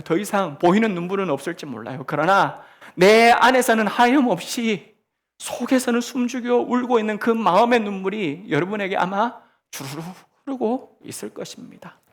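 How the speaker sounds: normal talking voice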